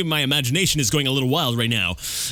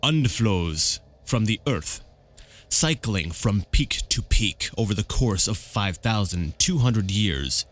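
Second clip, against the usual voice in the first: very slow, deep, savored delivery; Brakos; 4 semitones lower, much slower than usual. Acted. Dragon's representative lecturing on magic, slow and ponderous. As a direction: relish each vowel and consonant, taking your time. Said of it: "Brakos speaks slowly with a deep, melodious German accent".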